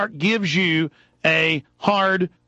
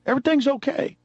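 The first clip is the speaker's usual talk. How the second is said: put-on soothing, as to a child; 7 semitones higher than usual. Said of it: "Like he's talking to a child".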